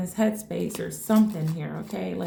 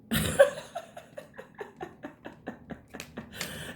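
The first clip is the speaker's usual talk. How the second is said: soft laugh; 7 dB quieter than usual. Real, not acted. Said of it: "I'm laughing right now".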